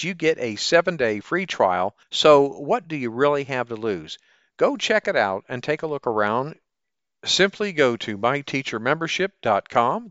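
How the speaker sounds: upbeat salesy ad read; chipper 1950s ad. Acted. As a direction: sell it like an old radio ad. Sponsor ad read.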